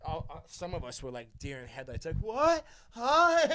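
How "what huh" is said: high confused what huh with a laugh; high baffled huh; startled. Retold or imitated. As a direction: freeze and squeak. Frozen like deer in headlights.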